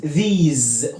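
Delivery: these ending in a buzzing "z"; voiced final S. Shown as a demonstration. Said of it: "بنطقها".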